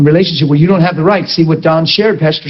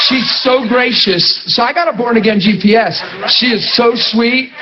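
fond; 5 semitones higher than usual. Real, not acted. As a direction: savour each word about the sweet GPS. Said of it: "She doesn't have any tone in her voice".

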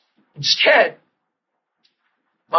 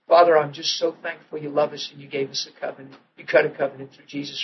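simple quiet prayer; 2 semitones lower, 5 dB quieter than usual. Retold or imitated. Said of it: "I said, real simple".

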